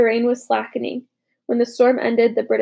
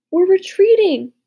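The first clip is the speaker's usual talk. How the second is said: slow, higher joyful cry; exultant; 8 semitones higher, 6 dB louder than usual. A narrator's reading. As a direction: exult in the good news. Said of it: "I exulted".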